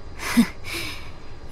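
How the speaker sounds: a small, soft laugh under the breath. Acted. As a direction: laugh quietly, moved by a friend. Touched by friend's words.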